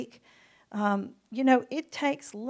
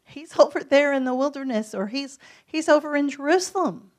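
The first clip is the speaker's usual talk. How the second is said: imitating a gossip; 5 semitones higher, 7 dB louder than usual. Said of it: "somebody would have to tell you".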